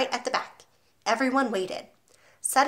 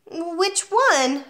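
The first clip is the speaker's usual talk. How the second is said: put-on 1 small boy voice; 8 semitones higher, 4 dB louder than usual. Boy asks.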